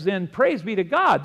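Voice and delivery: high, loud praise line; exultant pulpit shout. Acted. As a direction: proclaim it to the room. Fervent preaching climax.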